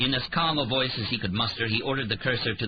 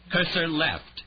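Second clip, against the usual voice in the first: higher, gasping command; gasped; 8 semitones higher, slower than usual. A narrator's reading. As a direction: push it out between gasps. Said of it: "he gasped".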